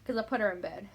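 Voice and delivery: breathless, half-whispered after running up the stairs; catching breath after the stairs; airy, winded words. Real, not acted. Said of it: "I'm kind of out of breath".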